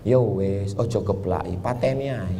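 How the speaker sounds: soft, gentle Javanese mock quote; lembut ala Jawa. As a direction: say it softly like a calm Javanese man. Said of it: "Orang Jawa ngomongnya lembut". (logat Jawa yang lembut)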